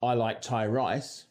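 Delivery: Cockney price vowel, I like Thai rice; Cockney accent. Shown as a demonstration. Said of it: "so that sentence in Cockney would come out as".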